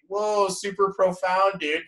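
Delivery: high, drawn-out stoner-style awe; awed reaction. Retold or imitated. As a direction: stretch it out like your mind is blown. Acting out reaction to friend's saying.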